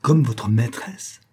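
slow, menacing "Comme votre maîtresse?" with the word "comme" rising; "Comme votre maîtresse?" repeated slowly, menacing and rising. Acted. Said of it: "le ton de la voix de madame O'Hara changea complètement et ses yeux avaient pris une expression menaçante".

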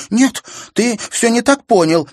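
very high, loud, stress on так; desperate denial. A narrator's reading. Sister desperately denying to brother. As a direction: plead he misunderstood.

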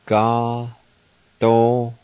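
ga and do said as separate, open syllables; Cherokee syllables. Shown as a demonstration. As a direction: give each of ga and do its own clear beat. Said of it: "And now pronounce these words".

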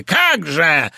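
a light mocking echo; mocking mimic. Wife mimicking her husband's order, mildly mocking. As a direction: mimic him to taunt. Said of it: "передразнила".

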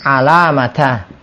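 Alamata drawn out, each syllable a-la-ma-ta spoken slowly; slow model word. Shown as a demonstration. Teacher to students, modelling Alamata slowly. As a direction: spell out Alamata slowly for the class to repeat. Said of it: "teacher repeats word slowly for class".

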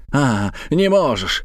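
slow, drawn-out indignant exclamation; mild acted shout. Uncle challenging his evasive friend, mildly shouted. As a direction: throw it back, mildly outraged. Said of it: "закричал дядюшка Антифер".

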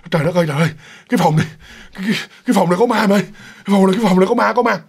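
retold panic with stuttered repeats; frightened stammering. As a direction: blurt it out in fright, tripping over words. Frightened friend reports a ghost in room.

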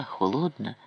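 ordinary delivery

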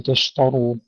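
تشتروا with a thick emphatic T; heavy T matching the R in تشتروا; wrongly heavy ta. Shown as a demonstration. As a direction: darken the T in تشتروا toward a Ta. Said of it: "أيضًا لا نقول".

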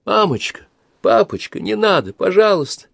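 put-on high, pleading little girl; girl begging parents to stop; sobbing plea. A narrator's reading. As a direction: beg through tears. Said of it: "рыдая и лепеча".

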